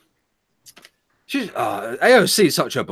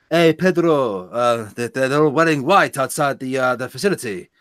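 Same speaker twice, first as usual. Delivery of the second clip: lightly faked Hispanic accent; poor mock-Hispanic accent; attempted Hispanic accent. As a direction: badly attempt a Hispanic accent, drawing out the greeting. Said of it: "I can't do a Hispanic accent".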